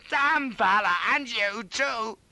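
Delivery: high-pitched, outraged squeal; high loud wail; feeble squeal. A narrator's reading. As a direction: squeal the curse in panic. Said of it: "I squealed feebly".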